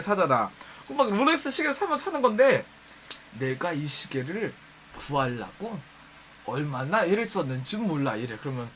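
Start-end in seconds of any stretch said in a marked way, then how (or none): 3.4-8.2 low, slow, smug show-off drawl; boastful rich customer. Retold or imitated. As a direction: brag about the watch, deep and unhurried. Boastful customer showing off watch.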